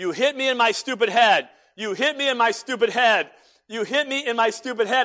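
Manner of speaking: mock, dazed, high screaming repeated over and over. Retelling how a concussed man came out by the fire: imitating someone screaming. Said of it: "He comes out screaming".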